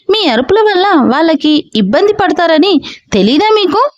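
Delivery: hint of an irritated hospital nurse; stern nurse. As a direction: reprimand the noisy family. Nurse scolds family.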